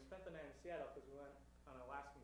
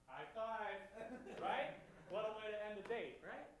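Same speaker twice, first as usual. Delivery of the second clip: mock excitement; 9 semitones higher, 7 dB louder than usual. Real, not acted. Sarcastic exclaim to crowd.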